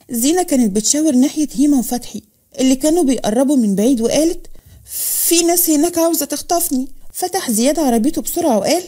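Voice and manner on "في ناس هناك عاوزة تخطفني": higher, mildly panicked voice; frightened plea. Acted. Zeina tells officer of kidnappers, higher and mildly frightened. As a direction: report it with a touch of alarm. Crying girl begs officer for help.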